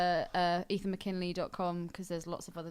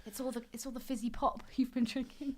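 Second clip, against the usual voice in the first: clipped wartime posh; 2 semitones higher than usual. Acted. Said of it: "speaking in a nineteen forties voice".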